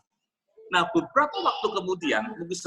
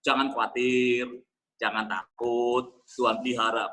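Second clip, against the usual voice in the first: mock soothing comfort; 4 semitones lower, slower than usual. Pastor voicing the hoped-for comfort.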